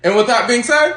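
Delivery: put-on high, slow, sassy Valley Girl dismissal; Valley Girl accent. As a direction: drawl it out, nose in the air. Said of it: "this Valley Girl accent".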